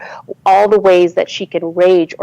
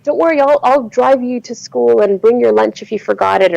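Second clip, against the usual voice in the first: lightly mocked doting parent, pitched up; a touch of sing-song parental reassurance; over-helpful parent; 5 semitones higher than usual. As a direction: coddle them in a higher voice.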